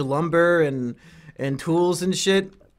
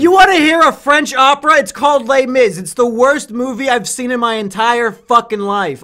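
mock rant; 7 semitones higher, 11 dB louder than usual. Mock rant about Les Mis.

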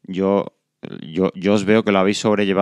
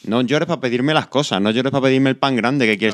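lightly voiced parent, higher in pitch; a raised-pitch telling-off, imitated without extra volume; retold fatherly admonishing; 4 semitones higher than usual. Father telling his son not to cry for things, mildly admonishing.

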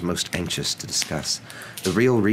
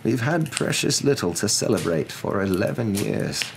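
slightly raised wizard character voice; gentle; 5 semitones higher than usual. Acted. Wizard explains eleven hard years, gentle. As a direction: reason with her kindly. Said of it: "said Dumbledore gently".

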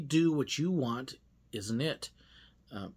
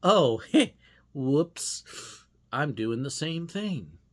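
a laugh then a sheepish whoops; laughing self-catch; 5 dB louder, much slower than usual. Retold or imitated. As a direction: catch yourself mid-rant with a laugh. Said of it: "And then I go".

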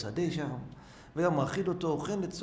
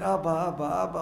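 imitated cry for father, a little raised; higher, mildly louder repeated calls; retold shouting; 4 semitones higher, 4 dB louder, slower than usual. Stranded boy calls his father in vain, retold shouting. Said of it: "צועק".

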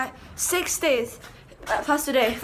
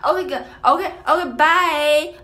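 higher, louder sing-song okay okay bye; playful goodbye; 6 semitones higher, 7 dB louder than usual. Pretend. Signing off to viewers with louder, higher playful goodbyes. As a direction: bounce out a cheeky goodbye.

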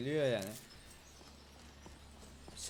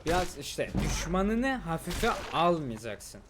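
mock lecture; 4 semitones higher, 6 dB louder, slower than usual. Real, not acted. Scolding lesson after near death.

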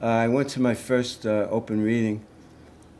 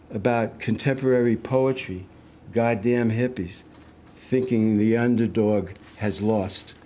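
measured list-like recital, each line set apart; poem reading. Acted. Poet reading a tribute to John Cabbage, steady recital. Resumes poem after slip.

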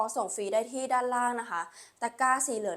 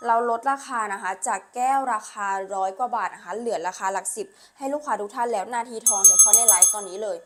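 loud; 5 dB louder than usual. Real, not acted. Flash sale announcement.

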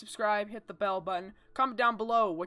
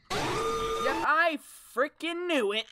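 high, loud laugh of fright; scared laughing shout; 7 semitones higher, 4 dB louder, much slower than usual. Real, not acted. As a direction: shout it out then laugh nervously.

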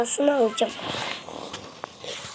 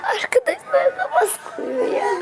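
laughing whisper; 13 semitones higher than usual. Real, not acted.

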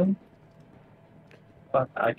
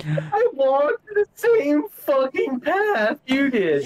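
angry; 13 semitones higher, slower than usual. Real, not acted. Arguing over who ran.

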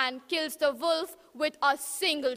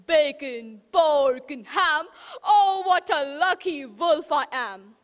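louder, gloating wolf; gleeful wolf shout; 5 dB louder than usual. Acted. Wolf gloating after eating the pig, loud. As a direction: crow it out like a greedy wolf. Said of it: "He shouted".

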